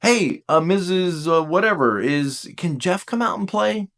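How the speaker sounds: lightly voiced neighborhood kid; a hint of a hopeful child; little kid asking. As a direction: ask hesitantly, lifting high at the end. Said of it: "when you were a little kid".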